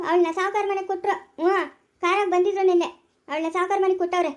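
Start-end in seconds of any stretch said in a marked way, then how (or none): 2.0-4.3 gloating laugh. Acted. Gloating over the rich marriage.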